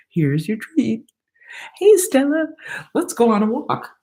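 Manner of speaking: husband voice. Retold or imitated. Voicing husband talking to dog.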